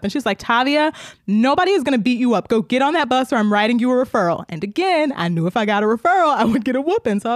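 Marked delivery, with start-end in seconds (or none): 0.4-4.4 higher, mock-stern scolding; imitated fed-up teacher. Teacher orders kid onto the bus, mock stern. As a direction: lay down the law like an exasperated teacher.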